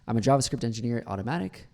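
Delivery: I'M said as one syllable; natural contraction. Shown as a demonstration. Coach shows natural speech, I and am contracted to I'M. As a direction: glide through I'M into the job title. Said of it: "tend to do that naturally".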